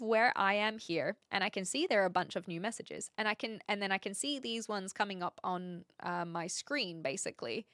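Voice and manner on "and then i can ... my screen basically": usual speaking voice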